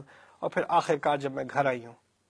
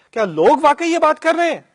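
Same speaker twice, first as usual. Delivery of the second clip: stunned disbelief; 11 semitones higher, 10 dB louder than usual. A narrator's reading. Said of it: "اور پھر کہا ہے".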